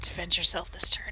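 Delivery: whispered, low-volume voice. Voicing a character giving a command to a conjured elemental: whispering. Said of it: "I'm going to whisper".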